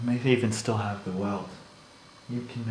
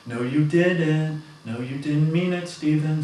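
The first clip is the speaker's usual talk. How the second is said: higher, louder, slow insistence; arguing with coworker, slow and raised; heated insistence; 6 semitones higher, 6 dB louder than usual. Retold or imitated. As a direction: dig in, slow and loud.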